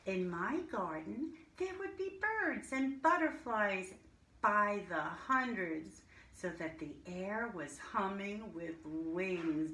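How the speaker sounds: lively storybook reading to a class; reading to children. Acted. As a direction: read it like a teacher sharing a picture book. Reads a picture book aloud to class.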